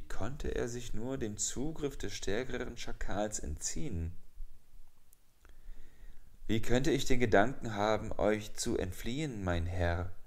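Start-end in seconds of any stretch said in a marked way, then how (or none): 6.5-10.1 higher, quicker, eager humble tone; with deference. Acted. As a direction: flatter the master nervously. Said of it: "mit Ehrerbietung". (ehrerbietig, schnell und höher)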